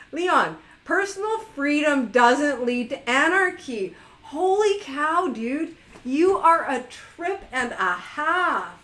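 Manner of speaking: amused pushback at a chat guest; amused exasperation. Real, not acted. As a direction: laugh while scolding. Laughing rebuttal to chat.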